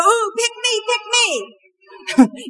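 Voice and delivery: high eager ooh, pick me; child straining to be picked. Retold or imitated. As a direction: beg the teacher to choose you. Eager child in Sunday school.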